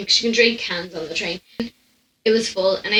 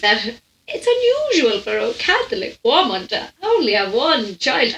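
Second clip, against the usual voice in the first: odd put-on voice; 2 semitones higher than usual. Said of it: "I sound like".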